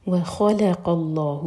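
slow, drawn-out chanted reading; slow tajweed recitation. Shown as a demonstration. Teacher modelling the verse for students, slow chant. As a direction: stretch each letter so students hear it. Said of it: "واو لائٹ، خا heavy".

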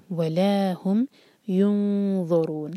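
slow, युनज़रून with hidden नून and heavy ज़ौ; heavy zau. Shown as a demonstration. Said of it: "युनज़रून आया है ज़ौ के साथ".

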